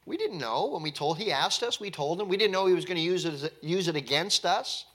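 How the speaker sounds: high, pleading, defensive voice; sons defending themselves. Retold or imitated. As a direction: protest your innocence to Dad. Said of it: "they simply explained".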